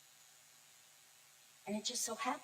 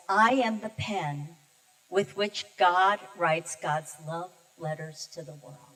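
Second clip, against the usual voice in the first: slow reverent quote; 3 semitones lower, 5 dB louder, slower than usual. Retold or imitated. Quoting Mother Teresa.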